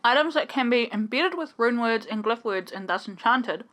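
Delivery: talking with a mouth full of food. Real, not acted. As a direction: read it round a mouthful of Mandarin. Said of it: "I've got Mandarin in my mouth".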